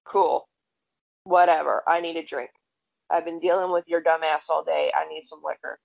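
low, indifferent brush-off; low-pitched weary dismissal; unimpressed. Retold or imitated. Unimpressed reply to starstruck friend.

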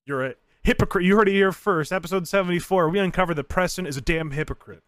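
loud, high indignant rant; mock outrage. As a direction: rant like a scandal host.

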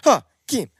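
calling out. Real, not acted. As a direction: call his name to get attention. Calling out to get attention.

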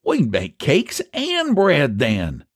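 high, drawn-out eager question. A narrator's reading. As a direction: leap at the idea, savouring each word. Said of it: "said Eph eagerly".

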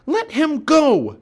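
high, loud, drawn-out demand; demanding shout. Acted. Annie charging the biggest pirate, demanding shout. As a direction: yell it at the bully.

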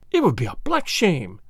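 usual speaking voice

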